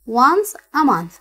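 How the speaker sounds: Once a month stretched out slowly, each word spaced; slow model reading. Shown as a demonstration. Teacher reading the answer aloud for students, slowly. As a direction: read it slowly for the class to follow. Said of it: "فينها؟".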